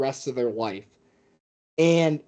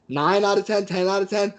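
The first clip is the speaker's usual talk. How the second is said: raised, higher pitch as the scale climbs; building intensity; 5 semitones higher than usual. Shown as a demonstration. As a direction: step it up toward a knockout call. Acting out rising excitement levels.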